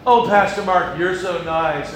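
a lightly voiced fawning church member; fawning flatterer. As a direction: gush over him, a bit too sweet. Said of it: "And Jonathan goes".

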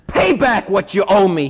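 mildly acted rough demand for payment; understated servant's angry demand. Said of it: "he demanded".

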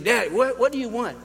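put-on a touch of teenage annoyance; frustrated kid. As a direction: son turns to his dad, mildly exasperated. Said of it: "you know, frustrated kid".

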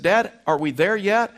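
the impatient son pestering his dad; whiny little boy. Retold or imitated. Little boy nagging again.

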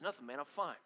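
low, quiet brush-off; mumbled-down guy reply that closes the conversation; dismissive guy talk. Retold or imitated. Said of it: "This is, like, guy talk".

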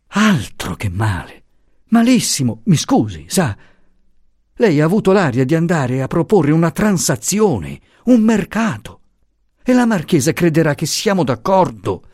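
high, vexed rebuke; exasperated scolding. Acted. Luisa rebuking the professor, high and exasperated. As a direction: scold him sharply but politely.

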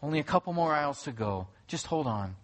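put-on soothing mother calming her child; a mild, sweet hush for the child; lightly voiced sweet mother. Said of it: "in a sweet tone".

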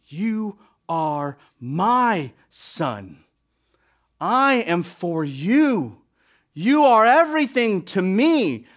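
slow, proud declaration; declaring it. Shown as a demonstration. God declaring to his son, slow and proud. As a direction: proclaim it like a father's pride. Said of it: "He is declaring it".

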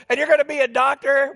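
high, quick, incredulous retold question; mocking disbelief. Staff ridiculing the would-be doctor, mock disbelief. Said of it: "We all bust out laughing".

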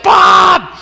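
high retold exclamation; shocked outburst. Prank victim seeing the huge hotel bill, shocked outburst. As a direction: burst out on one word, mock shock.

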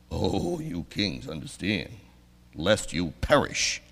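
slow, low, soft ominous warning; preacher mimicking the old stern psalm, slow and low; mock doom voice. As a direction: intone doom slowly and low. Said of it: "That's a lot different than".

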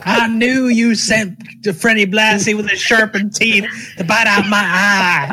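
hammed-up angry wrestler promo, laughing; mock wrestling promo. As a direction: rant it like an old heel promo. Cutting a mock heel promo.

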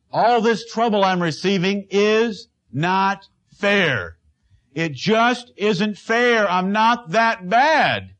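Job whining that it isn't fair; slow, drawn-out self-pitying complaint; whiny Job. Acted. Preacher playing Job protesting to God, whining slowly.

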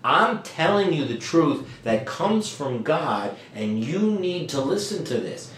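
deliberate stress on YOU NEED TO LISTEN; emphatic. Acted. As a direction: press each phrase on a listener who resists. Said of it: "putting this emphasis here".

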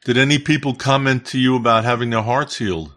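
choppy broken-up call audio; cutting in and out on a bad line; breaking up. Real, not acted. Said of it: "You're breaking up".

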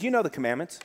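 calm, understated quoted Jesus; real calm. Retold or imitated. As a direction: say it gently, in no hurry. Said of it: "Jesus says this real calmly".

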